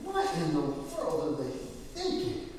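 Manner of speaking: baffled, half-whispered what-were-they-thinking; exasperated disbelief. Retold or imitated. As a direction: voice shoots up on thinking. Exasperated quote about foolish people.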